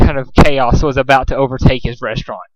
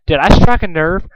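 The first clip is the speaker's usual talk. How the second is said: icy cruelty; 4 semitones higher than usual. Acted. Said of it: "A cruel iciness coated her voice".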